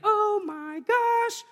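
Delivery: high, slow, drawn-out amazed oh my gosh; astonished gasp. Retold or imitated. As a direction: stretch it out high like the ticket lady in disbelief. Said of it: "That's kinda how it sounded, just like that".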